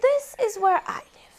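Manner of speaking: high and fast; fast badger. Badger showing its home, high and fast. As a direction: rattle it off. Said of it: "said the badger".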